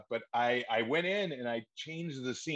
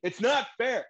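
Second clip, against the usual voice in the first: much higher, loud protesting cry; over-the-top wail; 11 semitones higher, 6 dB louder, slower than usual. Acted. Actor in cramped audition room, loud high wail. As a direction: raise the roof, overplay it. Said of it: "raise the roof".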